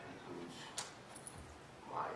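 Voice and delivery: nervous, faltering halt; stage fright. Real, not acted. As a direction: voice drops and loses its place. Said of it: "I'm a little nervous".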